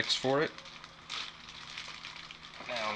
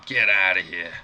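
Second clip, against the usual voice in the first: amazed exclamation; 8 dB louder than usual. Real, not acted. Reacts to thirty dollar price.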